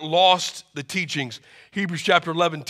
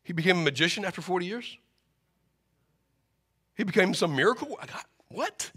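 stunned mother; 7 dB quieter, faster than usual. Acted. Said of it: "can you imagine mom be like".

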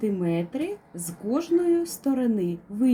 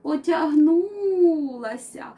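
stretching cat; 4 semitones higher than usual. Acted.

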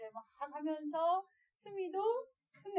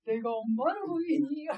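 joking wolf; 3 semitones higher, 6 dB louder than usual. Acted. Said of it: "농담하면서".

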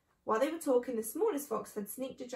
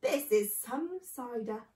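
slow, drawn-out appreciation; slowly, recovering from a fiery gulp; gasped; slower than usual. Acted. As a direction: stretch it out, winded by the drink. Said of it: "gasped the small fox".

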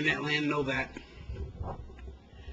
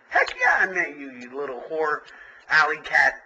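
mock yelling at the cat; 4 semitones higher, 4 dB louder than usual.

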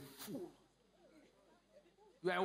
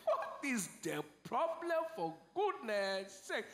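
slow, high, sobbing mock plea; mock sobbing question; 5 semitones higher, slower than usual. Preacher imitating a tearful wife, mock sobbing. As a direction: blubber the question through fake tears. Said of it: "mocking a crying person".

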